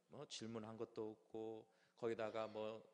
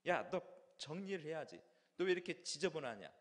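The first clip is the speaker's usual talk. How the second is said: raised-voice telling-off, imitated; mock scolding; 2 semitones higher, 5 dB louder than usual. Older brother scolding little sister, acted annoyance. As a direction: take it out on someone, half in earnest. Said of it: "동생한테 화풀이를 하는 거예요".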